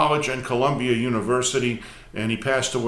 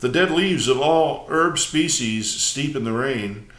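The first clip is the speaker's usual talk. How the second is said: measured, emphatic prose-poem recital; poetry reading. Acted. Host reads a prose poem to viewers, measured recital. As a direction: read it out phrase by phrase with deliberate pauses.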